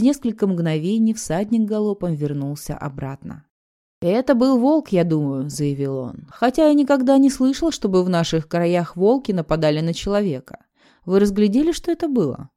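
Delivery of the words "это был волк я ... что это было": raised, rough rider's voice; loud rider. Acted. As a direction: call down from the saddle loudly. Rider questions Griswell.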